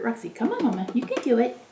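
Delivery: soft coaxing. Real, not acted. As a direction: gently urge the cat on. Coaxing the cat.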